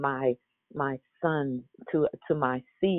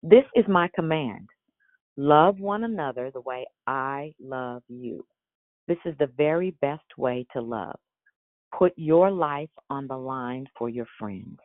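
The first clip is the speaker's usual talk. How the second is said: expressive scripture reading. Acted. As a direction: read the verses with feeling, savoring each promise. Reads scripture with inflection.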